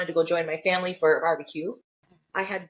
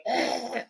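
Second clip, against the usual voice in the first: strained higher-pitched groan, mimicked; imitated wordless groan; 4 semitones higher than usual. Showing family she cannot speak, imitated groan. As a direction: groan as if words won't come out. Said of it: "can't get words out".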